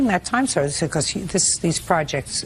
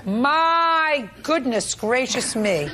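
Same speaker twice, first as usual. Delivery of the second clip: mock sympathy; 3 semitones higher, much slower than usual. Real, not acted. Judge mocks weather excuse.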